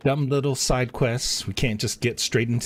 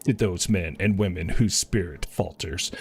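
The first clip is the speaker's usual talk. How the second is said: lightly voiced commander, a little lower and measured; earnest officer; 3 semitones lower than usual. A lightly voiced officer asking the hero to rally the troops, measured. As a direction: read it as a polite officer asking a favour. Reads officer's game dialogue.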